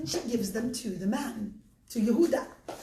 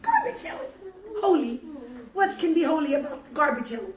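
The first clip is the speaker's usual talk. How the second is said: high, loud disbelief; stunned question; astonished; 3 semitones higher, 3 dB louder, much faster than usual. Acted. Yehuda astonished.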